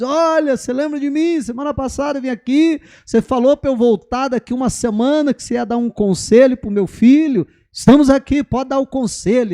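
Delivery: high, eager mother pressing the sage; mãe ansiosa. Retold or imitated. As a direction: push him for the advice, voice up high. Mãe volta cobrando o sábio. (mãe ansiosa cobrando o sábio)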